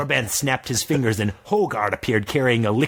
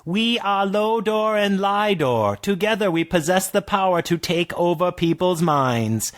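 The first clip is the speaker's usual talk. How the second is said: orc twins; 8 semitones higher than usual. Acted.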